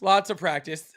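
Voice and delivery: laughing through lots of practice. Real, not acted. Repeats it laughing.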